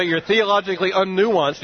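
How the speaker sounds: "You're theologically unnuanced" said high and loud through a laugh; mock outrage with laughter. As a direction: laugh at the insult as you quote it. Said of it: "you talk about calling someone a name".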